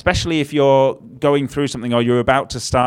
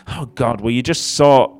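whiny prayer. Retold or imitated. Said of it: "those whiny prayers that we pray".

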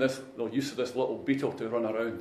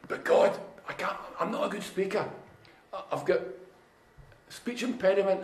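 Moses making excuses; 6 semitones higher than usual. Retold or imitated. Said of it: "they come up with all the excuses".

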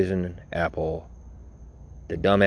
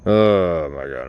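exclaimed; 7 dB louder, slower than usual. Real, not acted. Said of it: "I'm just droning on".

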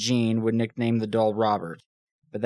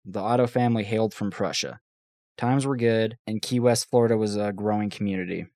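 serious story reading. Shown as a demonstration. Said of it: "Serious time".

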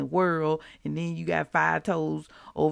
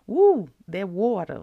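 excited whoop; 6 dB louder than usual. Real, not acted. Exclaiming about shower.

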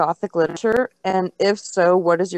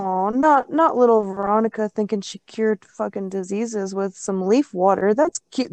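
dry sarcastic tone. Shown as a demonstration. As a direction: say it dripping with sarcasm. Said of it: "I was using a sarcastic voice".

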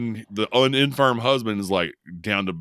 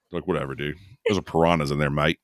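mock Australian accent; 5 semitones lower than usual. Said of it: "Sorry if you're Australian".

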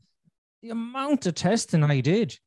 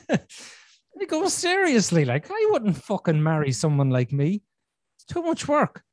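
chuckling at himself mid-story, pitched up; laughing; 2 semitones higher than usual. Real, not acted. Husband laughing while quoting himself to wife.

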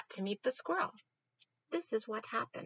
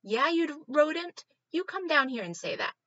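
angry dog; 7 semitones higher, 6 dB louder than usual. Acted. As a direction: growl up a dare at the squirrel. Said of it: "and he goes".

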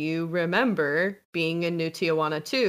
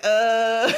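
awkward grunt; 4 semitones higher, 6 dB louder than usual. Retold or imitated. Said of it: "you're just like".

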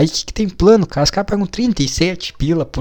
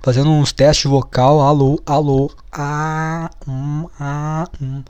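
short, level test sounds, mimicking a presenter; mock vocal warm-up; 4 dB quieter, slower than usual. Imagining the guru warming up before filming, mock vocal test. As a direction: pretend to test your voice's intonation. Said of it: "testando a entonação da voz dele".

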